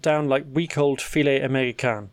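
presenter's lilting story lead; measured, wry news script delivery; scripted news read. Acted. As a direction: read it as a prepared news item. Reads scripted news item.

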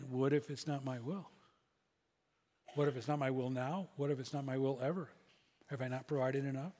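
soft, low, searching questions from the inner voice; God's quiet voice. Retold or imitated. Pastor voicing God's inner voice to him, soft and low. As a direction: gently press the question home. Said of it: "the voice came again".

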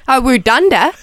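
lightly put-on Australian accent; Aussie accent. Niece showing how she said the auntie's word, in an Aussie accent. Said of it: "in my Aussie accent".

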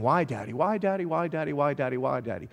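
lightly imitated child, running on without pauses; nagging child's repetition. Preacher imitating young kids pestering dad, lightly nagging. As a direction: repeat it over and over, trailing down. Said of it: "when my kids were young, over and over again".

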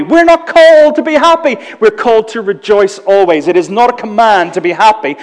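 high, loud proclamation; forceful preaching. Real, not acted. Pastor corrects the congregation, high and loud. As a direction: preach it out to the hall.

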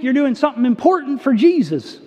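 put-on Southern accent. Pastor mimicking busy-church boasting to the congregation, Southern accent. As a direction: slip into a mock Southern preacher accent. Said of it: "kind of Southern accent".

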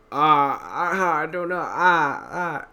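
flustered panic. Retold or imitated. Moss panics at burning extinguisher.

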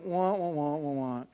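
lightly imitated self-pitying wail; mock a boy's endless complaining; mock whining. Preacher mimicking Shasta's going on and on, mock whining. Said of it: "Shasta goes on and on. He's like".

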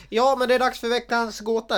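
high, loud segment intro; big excited podcast intro; hyped announcement. Real, not acted. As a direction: announce it like a show host.

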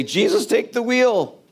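mock surrender. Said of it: "throw my hands up and say".

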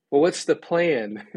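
mock-puzzled question, drawn out; insistent questioning. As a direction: ask it slowly, pressing the point. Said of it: "They're like".

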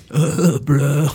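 mock Pacific Northwest bro. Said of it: "That's pretty".

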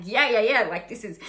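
imitating an overexcited, pumped-up self; pumped-up excitement. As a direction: sell it like you're amped about a big launch. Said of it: "if you're really excited and really pumped and amped".

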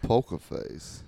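slow, breathless deadpan; hushed, slow Walken imitation; Walken-style reading of a song title. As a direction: drag it out like Walken reading lyrics. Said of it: "Christopher Walken's singing".

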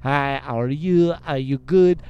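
French director. Retold or imitated. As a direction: imitate a French director's English. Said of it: "and he's French".

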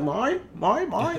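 high squawking "mine, mine, mine"; Nemo seagulls. Retold or imitated. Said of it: "where them birds was like".

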